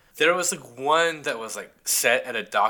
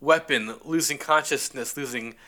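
fading radio report from a spaceship; sci-fi communicator; 3 semitones higher than usual. Retold or imitated. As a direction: report in, then fade out. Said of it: "the first cat says".

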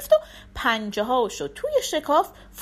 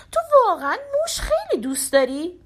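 higher, coaxing voice; sly fox question; 10 semitones higher, faster than usual. A narrator's reading. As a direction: bait the cat sweetly. Fox teasing the cat. (روباه با لحن زیر و فریبنده)

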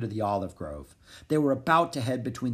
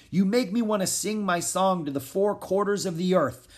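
high, lightly raised declaration; exuberant shout; 8 semitones higher, 3 dB louder than usual. A narrator's reading. Prince declaring his dream to friends, mildly shouted. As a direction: proclaim it high, as a half shout. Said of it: "shouted Alexander".

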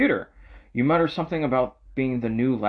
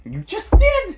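yelling; 8 dB louder, slower than usual. Real, not acted. Friend yelling at friend.

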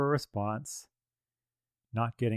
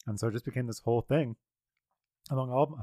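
talking while eating chips; words around a mouthful of chips; crunching chips. Real, not acted. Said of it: "sorry, I'm eating chips".

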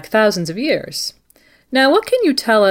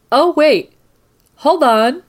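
a startled, louder, higher break into the broadcast; sudden surprise; 8 semitones higher, 4 dB louder, slower than usual. Acted. Radio host interrupted by news in her earpiece, startled. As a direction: cut yourself off as news comes in.

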